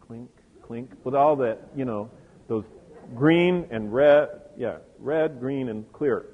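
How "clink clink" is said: softly voiced clinks; imitated jewelry clinking. Preacher showing how her jewels announced her, soft imitated clinking. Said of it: "you could hear her coming".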